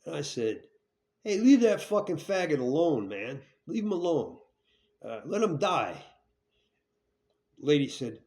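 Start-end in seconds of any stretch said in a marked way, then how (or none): 1.2-6.0 loud, higher furious retold shout; angry yell. Telling the helpful lady to leave the stabbed man, furious yell. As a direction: bark at her to leave him alone. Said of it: "So I was really pissed".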